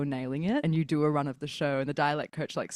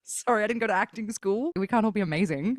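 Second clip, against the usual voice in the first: higher-pitched sarcastic comeback; mock defensive; 4 semitones higher than usual. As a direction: play up the wounded actor. Acted comeback to actor friends.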